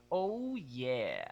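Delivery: groany fry at the bottom; vocal fry. Shown as a demonstration. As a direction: let yeah drop into creaky fry. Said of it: "drop into vocal fry at the bottom".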